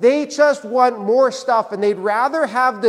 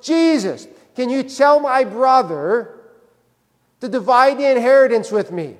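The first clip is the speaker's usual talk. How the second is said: lightly voiced heckler piping up; interrupting guy; 3 semitones higher than usual. Man interrupts Jesus mid-sermon to demand his inheritance, lightly mimicked. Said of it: "some guy in the middle of the sermon just goes".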